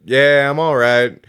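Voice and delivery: slow, loud called-back reply; answering from the background. Retold or imitated. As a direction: call back slowly that you're okay. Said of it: "hear out of the background".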